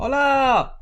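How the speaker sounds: loud, high, cheery Spanish greeting; Spanish hello. Real, not acted. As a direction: burst out with a bright Hola. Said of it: "I don't know why I started speaking Spanish".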